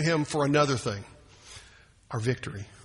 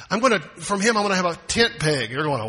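ordinary delivery

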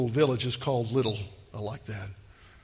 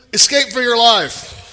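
urgent command; 7 semitones higher, 9 dB louder than usual. Shown as a demonstration.

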